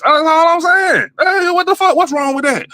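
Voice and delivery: venting at listeners who got mad at him, shouting; exasperated shout. Real, not acted. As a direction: yell it out, fed up and defensive. Exasperated outburst at the audience.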